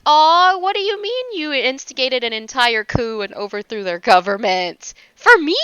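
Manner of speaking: loud, high "aw", then a gushing question; mock swooning. Fan imagining a coup in her name, mock swoon. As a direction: play flattered by a coup, coo the ends.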